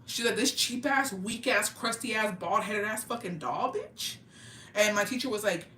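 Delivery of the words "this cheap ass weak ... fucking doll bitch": scornful mom. Retold or imitated. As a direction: imitate a mom belittling a cheap toy. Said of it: "like she was fucking stupid".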